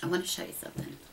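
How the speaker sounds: secretive near whisper; hushed. Shown as a demonstration. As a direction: drop to an unvoiced whisper for I wanna show you something. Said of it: "repeats line, second hushed".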